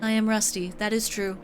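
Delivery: stately angelic character voice; measured, formal, unhurried; Atir voice. Acted. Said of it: "I like doing her voice".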